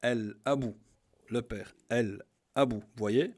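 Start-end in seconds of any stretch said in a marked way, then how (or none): 0.0-0.7 "Al-Abu" louder, with a clear separate L; lam pronounced. Shown as a demonstration. Teacher giving the alif example, L sounded clearly. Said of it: "on le prononce le lem". 1.9-2.8 slow, louder "Al-Abu" with the L held; lam pronounced. Shown as a demonstration. Teacher repeating the father example, L sounded slowly. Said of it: "on le prononce le lem".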